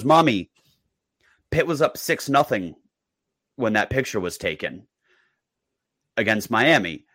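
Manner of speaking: hint of a proud toddler; kid's voice. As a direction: sound like a small child showing off. Four-year-old reciting score.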